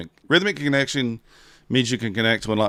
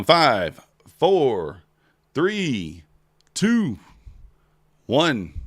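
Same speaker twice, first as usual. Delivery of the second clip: loud countdown; 4 semitones higher, 5 dB louder, much slower than usual. Acted. Countdown to closing entries.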